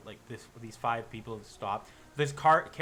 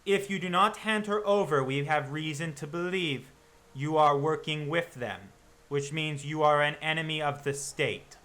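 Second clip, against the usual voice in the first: threatening hunter; 3 semitones higher, 4 dB louder than usual. Acted. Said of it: "the man goes".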